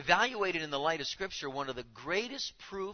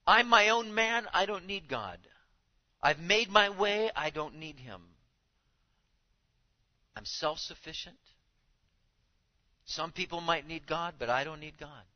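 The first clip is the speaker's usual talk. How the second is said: proud self-reliant man; 7 dB louder than usual. Retold or imitated. Proud man voiced in sermon.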